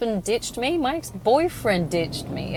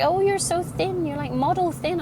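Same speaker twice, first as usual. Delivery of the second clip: gushing fan; 9 semitones higher than usual. Retold or imitated. Imitating people praising thinness.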